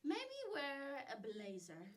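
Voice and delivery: slow, lightly voiced boyfriend; a hint of a dry boyfriend, drawn out.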